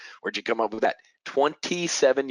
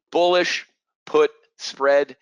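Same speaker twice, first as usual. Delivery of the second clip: emphatic hype; 5 semitones higher, 7 dB louder, much slower than usual. Real, not acted. Teacher hyping his favorite trade.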